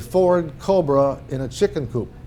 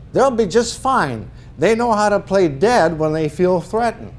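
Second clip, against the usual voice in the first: publisher's voice; 5 semitones higher than usual. Retold or imitated. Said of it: "Well, she says".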